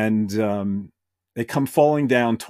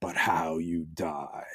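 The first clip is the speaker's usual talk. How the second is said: Scareglow; 5 semitones lower than usual. Acted. Green skull addresses Evelyn about death, low and ominous. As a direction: hush it down to a low, menacing close. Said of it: "we hear the voice of Scareglow".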